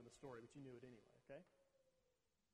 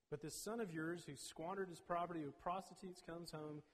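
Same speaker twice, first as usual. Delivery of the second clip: put-on older son storms to his father, bitterly complaining; angry older son; 4 dB louder than usual. Older son shouts at his father, hurt and indignant. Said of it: "He got angry and he, he stormed off".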